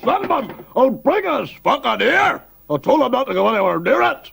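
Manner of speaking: exasperated yelling. Acted. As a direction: rage at the clumsy guest. Host furious about the tree.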